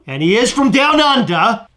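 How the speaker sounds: put-on amateur Australian accent; attempted Australian accent. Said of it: "Does that sound better this time".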